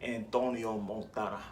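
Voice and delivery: lightly imitated movie character, slightly low; a hint of the film character's pronunciation; Tony Montana. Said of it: "as he puts it in the beginning".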